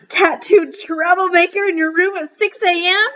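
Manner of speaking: a mother mocking the tattooed boy; scornful mother. A narrator's reading. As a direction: drag out the insult with contempt. Furious mother scolding.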